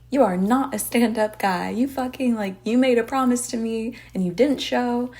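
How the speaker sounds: loud angry scolding; retold yelling. Woman scolding her dance partner, loud mock yell. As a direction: tell him off loudly for breaking his promise. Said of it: "starts yelling at Pat".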